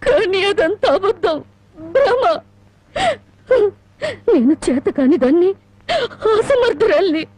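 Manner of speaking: breaking into tears; crying. Acted. Wife confesses failure to grandmother.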